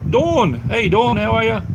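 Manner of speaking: loud, high-pitched hello; excited call-out. Real, not acted. Streamer hails Dawn joining the chat, excited call. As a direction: call out happily to a friend who just turned up. Calling out greeting to arriving viewer.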